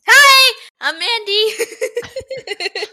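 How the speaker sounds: slow giggling intro; laughing. Real, not acted. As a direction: laugh through the words. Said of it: "was trying to hold it in".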